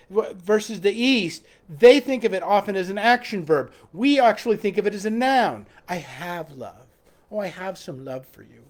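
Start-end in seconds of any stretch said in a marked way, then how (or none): 5.9-8.6 mock lovelorn Westerner. Preacher mimics a pining Westerner, soft and low. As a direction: lower and softer, wistful put-on voice. Mocking Western idea of love.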